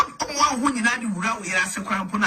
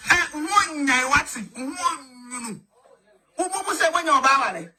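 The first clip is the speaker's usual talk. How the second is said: crying shout; 3 semitones higher than usual. Acted. Man wailing at his wife, crying shout. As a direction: wail it out, then let it collapse.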